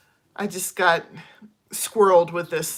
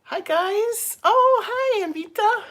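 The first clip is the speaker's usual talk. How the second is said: excited greeting; 13 semitones higher, 4 dB louder, slower than usual. Real, not acted. Greeting live viewers.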